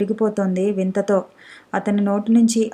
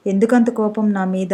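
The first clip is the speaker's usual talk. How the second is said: ordinary delivery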